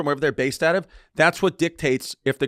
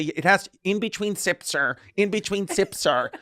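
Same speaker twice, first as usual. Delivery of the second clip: mock flight attendant; 3 semitones higher, 3 dB quieter, slower than usual. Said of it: "she would say".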